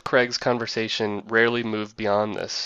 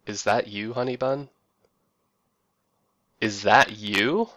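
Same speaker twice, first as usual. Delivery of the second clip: lovey-dovey sing-song. Retold or imitated. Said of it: "with a soft and most gentle, lovey-dovey sing-song".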